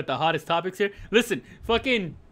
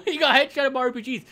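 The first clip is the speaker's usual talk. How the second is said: excited repeat; 5 semitones higher, faster than usual. Real, not acted. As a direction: hit it again with glee. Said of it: "laughs then repeats faster".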